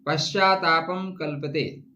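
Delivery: slow, measured shloka recitation; Sanskrit verse recitation. Acted. Astrologer quoting a shloka to viewers, recitation. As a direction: recite the Sanskrit slowly, line by line.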